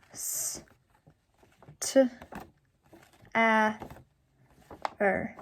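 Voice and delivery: L, U, O, K spoken one letter at a time with pauses; sounding out letters. Shown as a demonstration. Teacher sounding out look for students, letter by letter. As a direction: slide through each letter of look slowly. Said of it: "the last one, star".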